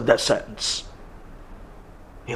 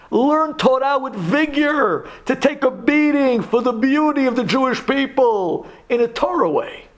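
a hint of a pleading, higher father's voice; lightly voiced God; 4 semitones higher than usual. Lightly voiced Hashem urging his children to carry each other. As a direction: speak as a loving parent asking of his children. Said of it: "Hashem expects from us".

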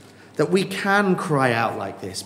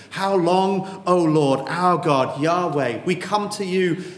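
slightly raised prayer calling God by name; a hint of prayer; 2 semitones higher, slower than usual. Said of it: "David would say".

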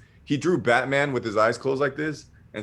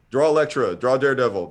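imitated fan requests; 3 semitones higher, 5 dB louder than usual. Fans in line calling requests.

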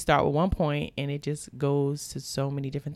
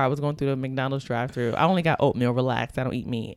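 normal talking voice

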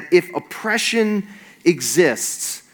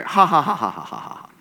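mock sitcom laugh-track laughter, fading away; 3 dB quieter than usual. Preacher mimicking a sitcom audience at the punchline, mock laughter. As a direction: fake canned laughter trailing off. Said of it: "this is the moment where the laugh track comes in".

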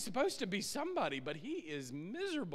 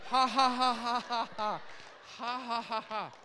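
scornful ha ha, louder; mocking laugh; 3 semitones higher, 4 dB louder than usual. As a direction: laugh at the dancing like a sneering wife. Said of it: "and I thought".

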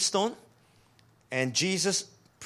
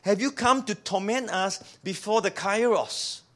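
pleading demons; 4 semitones higher than usual. Acted. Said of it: "demons were saying the same thing".

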